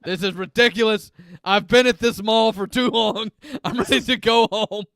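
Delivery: lightly voiced mall Santa, a bit scratchy. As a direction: play a grumpy smoker Santa, only slightly put on. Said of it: "I don't know what this accent is that Santa is using".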